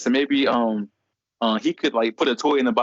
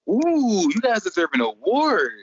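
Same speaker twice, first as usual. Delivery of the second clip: high, gushing mock praise; high-pitched fake-sweet compliment; gushing saleswoman; 8 semitones higher, slower than usual. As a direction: gush over them in a high voice.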